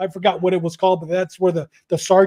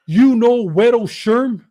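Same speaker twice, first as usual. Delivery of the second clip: slow, louder warden's question; stern interrogation; 5 dB louder, slower than usual. Retold or imitated. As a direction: confront him, drawing out the question. Warden confronts him in retold meeting.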